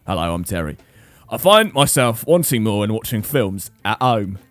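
Yorkshire Terry. Retold or imitated. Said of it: "true Yorkshire accent that he's got coming through".

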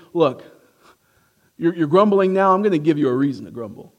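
a hint of a fed-up parent; lightly voiced scolding parent; mock exasperated parent. Preacher voicing Jesus like a fed-up parent, mildly mock. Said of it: "It's almost like he's saying".

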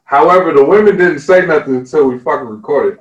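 outburst. Real, not acted. Narrator voice breaks into outrage.

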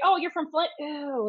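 lightly acted distaste; mock disgust. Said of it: "people would say".

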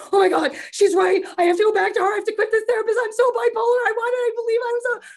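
high, loud panicked rush; retold panic. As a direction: spiral into alarm, pitch up and loud. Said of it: "I left the gig in a total".

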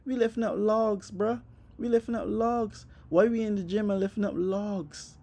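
high, outraged disbelief; bruh, are we really lifting logs; incredulous. Retold or imitated.

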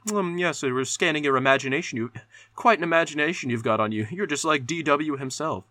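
a hint of a film doctor marvelling at his patient; lightly voiced doctor. Doctor scanning his captive's imagination, lightly mock-impressed.

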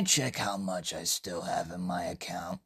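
whispered question at the bank counter. Acted. Customer whispering to the bank teller. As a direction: breathe it without voice.

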